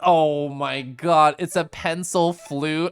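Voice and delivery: slow, savouring delight; real, stretched-out happiness; so happy. Real, not acted. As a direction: draw out every word, overjoyed. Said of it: "I'm so fucking happy".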